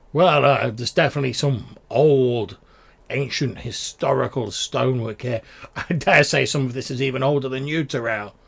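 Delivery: lightly teasing, a touch of mischief; slightly jovial, playful ribbing; jovial, mischievous. Acted. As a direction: tease a companion with good-natured cheek. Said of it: "slightly sort of jovial, mischievous voice".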